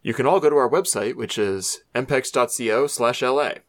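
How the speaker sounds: lightly voiced announcer; a hint of professional announcer. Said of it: "That's my announcer voice".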